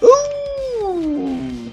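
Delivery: normal talking voice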